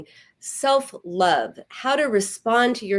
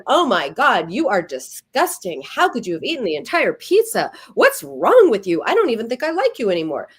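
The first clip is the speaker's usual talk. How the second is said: a hint of a disgusted, louder scold; mild mock outrage at a friend; 3 dB louder than usual. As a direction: berate the friend, half-hearted.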